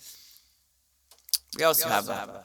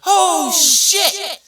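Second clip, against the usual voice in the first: a high worried dog voice; scared dog voice; 7 semitones higher, 3 dB louder than usual. Retold or imitated. Mailman voicing a dog that sees the gate open, scared. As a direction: voice the dog's panic.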